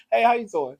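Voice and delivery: mock street flirt greeting; imitating New Orleans men. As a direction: mimic a smooth man calling to a woman on the street. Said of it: "the way y'all be talking".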